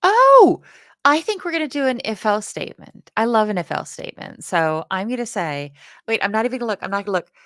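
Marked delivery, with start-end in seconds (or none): 0.0-0.6 a high, loud burst of realization; sudden realization. Real, not acted. Sudden realization mid-sentence. 1.1-4.4 excited. Real, not acted. Excited about the coding idea.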